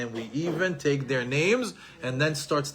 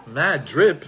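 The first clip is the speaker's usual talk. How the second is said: louder puzzled repeat with a rise; baffled echo; 5 dB louder than usual. Retold or imitated. Father repeats son's slang, louder and puzzled. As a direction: echo the strange phrase, confused. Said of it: "I didn't know what that meant".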